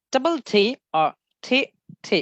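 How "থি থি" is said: থি, থি each with an aspirated T; clear separate letters. Shown as a demonstration. Teacher showing double T clearly, separate aspirated থি. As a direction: leave a gap and puff each থি. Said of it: "স্পষ্ট করে".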